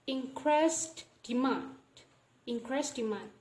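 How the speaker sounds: "demand" ending on the N, no D; dropped final D. Shown as a demonstration. Teacher showing sound deletion, "demand" said without its last D. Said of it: "we don't pronounce the D sound".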